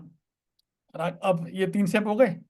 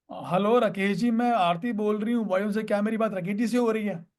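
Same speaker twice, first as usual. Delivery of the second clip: rattled off without a pause; run-on telemarketer script. Shown as a demonstration. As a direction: recite the whole call opener in one breathless run. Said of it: "ऐसे नहीं बोलना होता".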